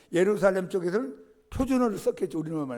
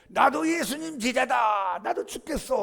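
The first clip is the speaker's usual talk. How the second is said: slow, raised declaration of loyalty; imagined bold vow; 6 semitones higher, 5 dB louder, slower than usual. Retold or imitated. Peter imagining he boldly follows Jesus, slow raised vow. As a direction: proclaim it like a brave disciple.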